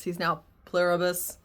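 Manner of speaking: Pluribus said slowly as "PLEH-ruh-bus"; new pronunciation. Shown as a demonstration. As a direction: drawl out the new name Pluribus. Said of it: "now he's no longer Pluribus".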